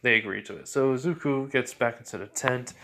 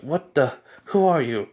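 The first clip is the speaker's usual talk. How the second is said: louder, alarmed challenge; startled; 3 semitones higher, 6 dB louder than usual. Acted. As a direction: demand it, caught off guard. Wakes in a strange void.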